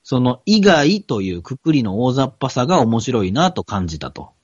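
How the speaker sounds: careful second read-through of a printed passage; reading aloud. Real, not acted. Podcaster rereads the passage for his co-host, reading aloud. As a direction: read it out phrase by phrase for the listener.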